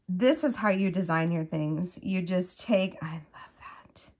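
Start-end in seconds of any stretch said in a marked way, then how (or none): 3.0-4.1 soft, awed whisper. Real, not acted. Crafter whispering over a pretty border. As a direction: hush it like a private delight. Admiring pattern, whispered aside.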